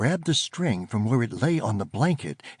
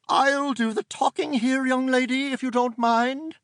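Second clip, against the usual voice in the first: prim, scolding auntie; stern aunt voice; 12 semitones higher than usual. Acted. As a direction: order them out at once. Aunt cuts in.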